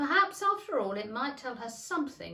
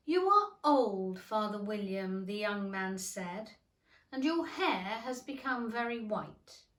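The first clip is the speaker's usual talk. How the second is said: poem recitation; 3 dB louder than usual. Acted.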